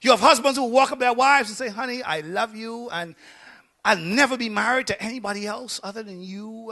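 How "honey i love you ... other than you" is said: soft imitated sweet talk; tender husband. Husband walking up to his wife, imitated tenderly. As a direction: lightly play a devoted husband, hushed.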